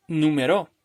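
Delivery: numeró landing on final RÓ, rising; stress on last syllable. Shown as a demonstration. Teacher shifting the tonic syllable, numeró stressed on RÓ. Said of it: "vaya cambiando la sílaba tónica".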